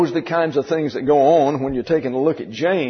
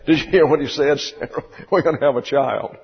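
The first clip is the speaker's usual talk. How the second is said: hurried question broken up by chuckles; laughing incredulously; faster than usual. Acted. Abraham to Sarah about having a child at their age, laughing. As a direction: act out amused disbelief, chuckling through it. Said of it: "to which they both laughed".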